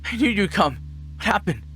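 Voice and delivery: high, loud, breathless joy of a daughter; overjoyed cry. Acted. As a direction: shriek with relief and delight. Daughter greets returning dad.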